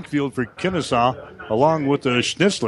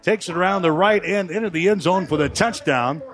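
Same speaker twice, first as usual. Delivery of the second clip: excited touchdown call; 5 semitones higher than usual. Real, not acted. Touchdown scored, raised live call.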